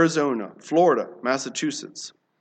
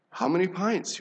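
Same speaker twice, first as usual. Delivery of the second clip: quiet question; 5 dB quieter than usual. Acted. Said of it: "you ask".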